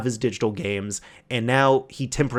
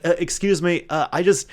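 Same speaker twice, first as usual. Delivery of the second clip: polite customer; 4 semitones higher than usual. Retold or imitated. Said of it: "he's like".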